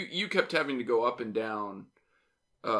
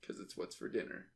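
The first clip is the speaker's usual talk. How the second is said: gravelly ad voiceover; 12 dB quieter than usual. Retold or imitated. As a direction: hush it like a TV ad. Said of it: "he has a nice gravelly voice".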